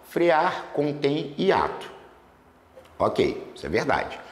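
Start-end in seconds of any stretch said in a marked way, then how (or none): 0.0-1.9 slow emphasis. Shown as a demonstration. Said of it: "Aí observe".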